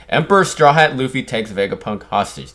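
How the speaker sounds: mildly hammed-up headline read; excited newsman. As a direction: proclaim it like a big headline. Repeats the character's headline.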